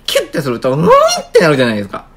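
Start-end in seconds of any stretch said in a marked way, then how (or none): 0.7-0.9 string twang. Shown as a demonstration. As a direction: imitate a tightened string's twang. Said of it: "引っ張れば引っ張るほどなんか高い音出る".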